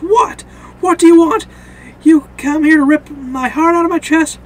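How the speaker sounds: loud, high-pitched challenge; worked-up, confrontational yell; acted angry confrontation. Shane confronts Rick with gun.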